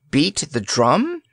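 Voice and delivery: shocked surprise. A narrator's reading. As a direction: ask it aghast. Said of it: "looked surprised and shocked".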